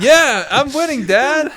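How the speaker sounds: slow, drawn-out mock son voice; playful put-on reply to a parent; meme son replying. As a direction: answer Dad in a hammed-up, dragged-out voice. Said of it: "And he's just like".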